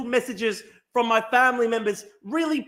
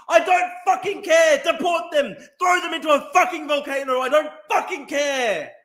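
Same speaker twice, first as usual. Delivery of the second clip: furious shout; 4 semitones higher than usual. Real, not acted. Angry streamer yelling about thieves at his chat. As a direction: shout them down in rage.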